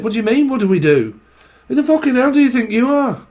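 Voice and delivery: heated northern domestic row; bickering elderly couple. Acted. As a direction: snipe back and forth as husband and wife. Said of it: "a couple that proper goes at it".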